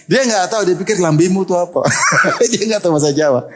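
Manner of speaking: laughing through the words, voice breaking up; real laughter bursting through the punchline. Real, not acted. Preacher laughing to the audience about a swear word. Laughing at own Javanese joke.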